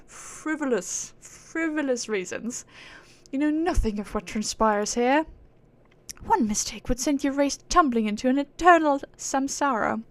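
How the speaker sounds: haughty aristocratic British; British accent. Acted. Proud being scorning mortals for chasing reward, haughty British accent. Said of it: "British accent like the fucking aristocrats".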